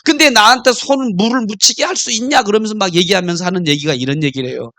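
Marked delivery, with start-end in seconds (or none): 0.0-2.4 mildly voiced wife's complaint; hurt wife. Wife reproaching her husband over a broken marriage promise, hurt complaint. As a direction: play a wife nagging with a touch of hurt. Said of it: "아내가 서운해가지고".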